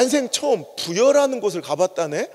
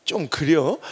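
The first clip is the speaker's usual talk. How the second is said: mild Chungcheong hedge; 5 semitones lower, much slower than usual. Retold or imitated. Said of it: "이게 가장 완곡한 부정적인".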